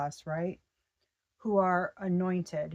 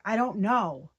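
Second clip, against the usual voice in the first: irritated; 6 dB louder than usual. Retold or imitated.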